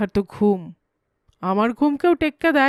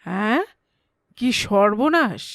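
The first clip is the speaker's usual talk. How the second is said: startled. Acted. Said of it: "আমি আঁতকে উঠি".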